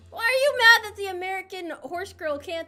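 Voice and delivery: high, loud, indignant ranting; mock angry rant. American horse girl ranting at chat about British, mock fury. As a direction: play it up like an offended diva.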